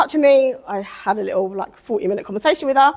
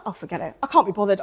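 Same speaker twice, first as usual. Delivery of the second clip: much softer, brushing it off; dismissive shrug; 3 semitones lower, 5 dB quieter, faster than usual. Retold or imitated. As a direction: wave it away, quietly. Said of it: "But I was like".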